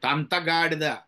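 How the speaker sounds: firmer mock telling-off of a grown child; stern scolding. Shown as a demonstration. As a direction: scold an older child for a mistake. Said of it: "పెద్ద అయిన తర్వాత తప్పు చేస్తే". (పెద్దవాణ్ణి గట్టిగా మందలిస్తూ)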